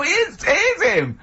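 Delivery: mock awed crowd voice; excited bystander. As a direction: squeal like an excited onlooker. Crowd recognising hero.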